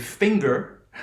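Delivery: FINGER with a hard g and a final r; audible g. Shown as a demonstration. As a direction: sound the g in FINGER, American r at the end. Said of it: "you'll notice there's a difference".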